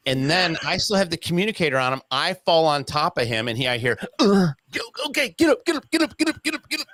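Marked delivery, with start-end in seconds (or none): 4.2-4.5 short pained grunt, higher and louder; dad hitting the pavement, imitated grunt; mock grunt. Dad grunts under him. 4.7-6.9 much higher, hurried get up get up; dad urging his son up, high and frantic. Retold or imitated. Dad urging to lift bike.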